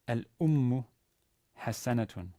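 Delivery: "al-ummu" with stress on "um" and a held m; "al-ummu", pause, then "hasanatun", as a clear reading model; careful model reading. Shown as a demonstration. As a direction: read "al-ummu hasanatun" word by word. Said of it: "it's read".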